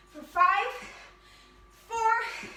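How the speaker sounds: loud countdown. Real, not acted. Coach counting down the set.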